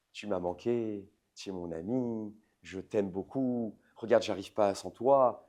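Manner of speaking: butter him up gently to win him back; sweet-talking flattery. Acted. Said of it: "un peu de pommade".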